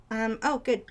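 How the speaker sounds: ordinary delivery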